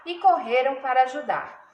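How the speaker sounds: expressive storytelling with weighted key words; children's story narration. A narrator's reading. Teacher reads a fable to pupils, storytelling voice. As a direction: read it to children, drawing out the suspense.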